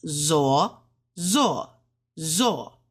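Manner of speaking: zo said rising like a question; zo in second tone. Shown as a demonstration. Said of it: "turn this to a second tone".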